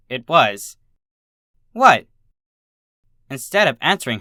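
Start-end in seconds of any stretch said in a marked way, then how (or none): 1.7-2.1 sharp, high and loud bewildered cry; startled what. A narrator's reading. Filly blurting out at her shocked classmates, startled and loud. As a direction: blurt it out in total confusion.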